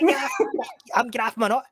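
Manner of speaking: high, hammed-up panic over "graphing my nut"; mock frantic. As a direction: yelp it like you're losing it. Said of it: "I'm like".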